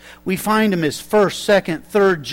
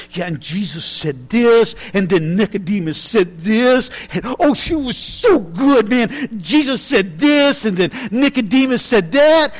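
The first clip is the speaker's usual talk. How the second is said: overexcited. Retold or imitated. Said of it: "he just gets so overexcited".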